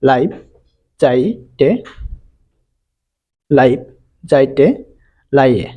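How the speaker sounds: "লাইভ, যাইতে, লাইয়ে" with ai as in "eye"; model pronunciation. Shown as a demonstration. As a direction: model each word apart, clear eye glide in "লাইভ, যাইতে, লাইয়ে". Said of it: "সায়ের মতন উচ্চারণ হয়".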